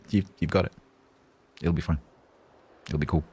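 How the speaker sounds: gentle, even reassurance; calmly telling Tiger it'll all be fine. Shown as a demonstration. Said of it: "That's why I'm talking very calmly and saying".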